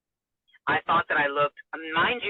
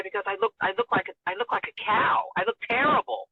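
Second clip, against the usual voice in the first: upset wife; 4 semitones higher, faster than usual. Retold or imitated. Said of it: "I said".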